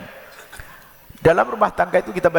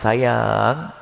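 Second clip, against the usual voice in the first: lower, gentle loving reply; sweet couple talk; 5 semitones lower, slower than usual. Retold or imitated. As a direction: answer your husband tenderly, lower in pitch. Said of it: "Pakai kalimat lembut".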